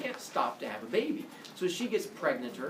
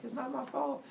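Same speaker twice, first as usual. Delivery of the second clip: whiny protest; 9 semitones higher, 6 dB quieter than usual. Acted. Leto protesting to Hera.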